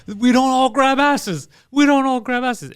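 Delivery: slow, high mock protest; mock Italian Americans, slow and high. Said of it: "It's so".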